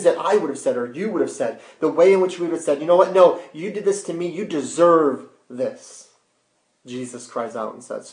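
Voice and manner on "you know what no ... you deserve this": raised-pitch mock indignation; acted outburst of blame; indignant retort. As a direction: push back as if wronged, higher-pitched. Imagined angry retort to persecutors.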